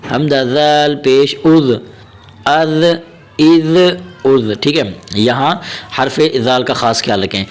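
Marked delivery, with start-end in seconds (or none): 0.1-4.5 slow, measured Arabic letter drill; teacher reciting a Qaida drill slowly; Qaida drill recitation. Shown as a demonstration. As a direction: chant the letters like a Quran teacher.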